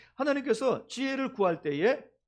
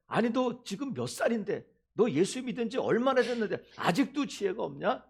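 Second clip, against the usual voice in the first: slightly raised, acted reproach; mock scolding; 4 semitones higher than usual. God imagined chiding a long-time believer, mock scolding. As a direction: chide like a disappointed elder. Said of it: "이렇게 꾸짖지 아니하".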